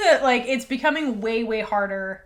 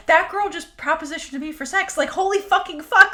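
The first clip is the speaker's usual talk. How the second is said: mock panic, rising higher and louder; retold panic; 6 semitones higher, 6 dB louder than usual. Retelling a woman panicking behind the door after being propositioned, mock panic. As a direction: play up a flustered freak-out, swearing. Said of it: "visibly gay panicking".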